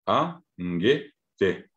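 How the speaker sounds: a, ngue, te spoken slowly one by one; repeating the split a, ngue, te for students; syllables spelled out. Shown as a demonstration. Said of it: "sino es a".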